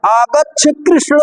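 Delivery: कृष्ण stretched out as a distant call; calling from afar. Shown as a demonstration. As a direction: call Krishna across the field, slowly. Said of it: "कोई किसी को दूर से बुला रहा है". (दूर से पुकारते हुए)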